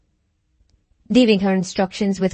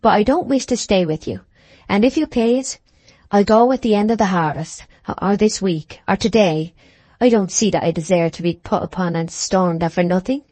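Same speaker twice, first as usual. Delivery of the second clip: mild wounded pride. Acted. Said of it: "concluded the small woman, bigly".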